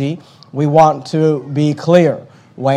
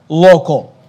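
local set apart and leaned on; stress on local; 3 dB louder than usual. Shown as a demonstration. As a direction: give the word local its own beat, falling. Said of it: "let me begin by emphasizing this word".

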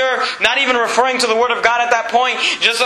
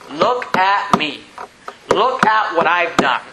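mock boasting; 5 semitones lower, slower than usual. Mocking a self-righteous boaster.

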